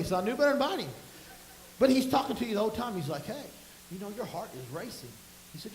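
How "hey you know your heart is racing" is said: imitating a soft, unhurried coach; quietly observe, as the unruffled opponent; calm coach. Jujitsu teacher calmly talks while choking.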